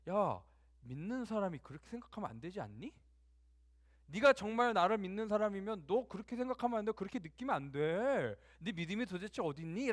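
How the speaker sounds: stern telling-off, pitched high; acted scolding. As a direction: lecture a doubter in exasperation. Acts a scolding Jesus, then rejects it.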